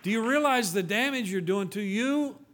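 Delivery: high, forceful, incredulous challenge; exasperated rebuke. Acted. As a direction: confront them, punching the key words.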